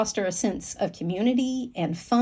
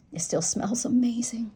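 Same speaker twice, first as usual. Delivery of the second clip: breathy whisper of delight; 2 semitones higher, 3 dB quieter than usual. Real, not acted. Vlogger whispering to viewers about her planner cover, whispered. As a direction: whisper it like a secret treat.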